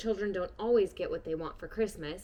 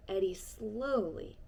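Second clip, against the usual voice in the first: slow, hushed whisper; 6 dB quieter, slower than usual. A narrator's reading. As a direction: drift it down gently. Quiet ending narration.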